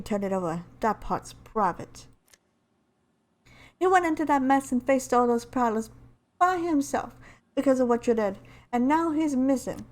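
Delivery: lightly voiced game heroine; a touch of accusation in an amateur character voice; Lifeline impression. Lifeline blaming Bangalore for Octane going missing, lightly in character. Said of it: "trying to do my best Lifeline impression".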